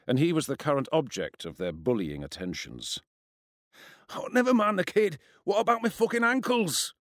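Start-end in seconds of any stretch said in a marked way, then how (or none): 4.1-6.9 high, whining schoolboy protest; indignant protest. A narrator's reading. Hurt schoolboy complains to his mate about ankles, protesting. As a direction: protest sorely, pitched well up. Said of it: "Gavin protested".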